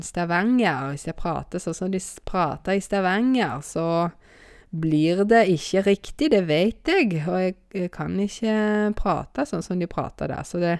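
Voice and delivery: tentative imitation of Stavanger dialect; forsøk på Stavanger-dialekt. Shown as a demonstration. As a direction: try a Stavanger accent, unsure of it. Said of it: "prøve å imitere sånne Stavanger". (usikkert forsøk på stavangersk)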